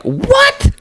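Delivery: very high squeaked what; shocked squeal. Retold or imitated. Hearing the guy is only nineteen, squealing. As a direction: let your voice shoot up in shock. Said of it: "I was like".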